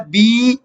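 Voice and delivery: "بی" with the "ee" lengthened; drawn-out vowel. Shown as a demonstration. Teacher recapping the ya sound, "بی" drawn out. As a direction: hold the vowel in "بی". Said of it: "اس کو کھینچ کر پڑھتے ہیں".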